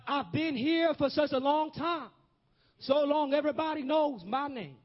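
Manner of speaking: rising, ringing preacher's call; preaching at full force. Acted. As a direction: lift the congregation, pressing each line home.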